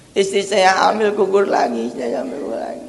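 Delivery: lightly acted lament, fading away; imitated weeping complaint. Preacher voices tearful husband's complaint, fading mock lament. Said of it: "dua sejolim menangis".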